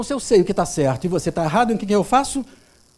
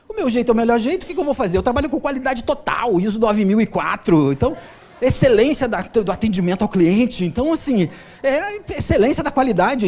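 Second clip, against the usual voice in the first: mock self-important insistence, higher and louder; hammed-up know-it-all justifying himself; imitated overbearing client; 3 semitones higher, 5 dB louder than usual. Client defending his way to the therapist, mock overbearing. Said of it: "ele era muito prepotente".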